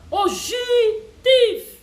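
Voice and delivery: loud, sharp cry of thief; shouted accusation. Acted. Scolding hotel staff, shouting thief. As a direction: yell it out like catching a thief.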